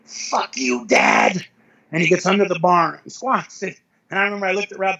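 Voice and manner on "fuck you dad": low, strained mock scream; retold scream. Crying lifter psyching up at the bar, retold low scream. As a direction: imitate a lifter's tearful battle cry, dropped low. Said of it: "he screams out".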